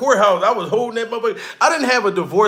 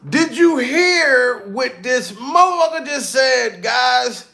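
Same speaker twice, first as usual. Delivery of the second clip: slow, raised, hyped shout; calling out to chat; 4 semitones higher, slower than usual. Real, not acted. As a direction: grab the chat's attention.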